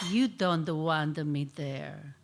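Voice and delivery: mildly voiced wounded immigrant mom; disappointed mother. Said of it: "couldn't hide the disappointment in her voice".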